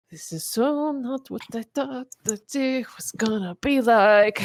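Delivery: breathless high whisper; shocked whisper. Acted. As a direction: whisper it in stunned disbelief. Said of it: "and she goes".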